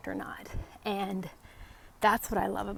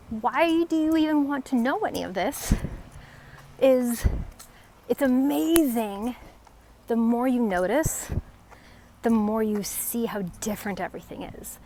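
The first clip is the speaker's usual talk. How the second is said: lifted, eager and louder; excited; 3 semitones higher, 5 dB louder than usual. Real, not acted. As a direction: share your delight in noticing things. Enthused about noticing trees.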